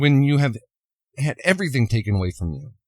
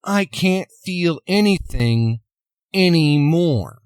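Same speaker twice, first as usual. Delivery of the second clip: high, drawn-out anguished cry, louder at the end; mock scream, pitch lifted and last word stretched; retold scream; 6 semitones higher, 4 dB louder than usual. Woman breaks down before V, retold scream. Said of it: "then she screams".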